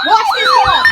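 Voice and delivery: high excited squeal; giddy high-pitched watch this. Real, not acted. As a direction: squeal with glee as it goes off. Excited about incoming alerts.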